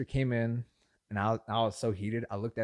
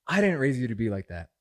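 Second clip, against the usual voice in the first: louder, mock-stern parental reproach; scolding mom; 6 dB louder than usual. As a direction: imitate a mom telling off her son.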